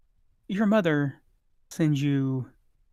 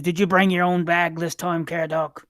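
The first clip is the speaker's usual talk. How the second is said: gruff shopkeeper; 3 semitones higher, 5 dB louder than usual. Acted. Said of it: "he says".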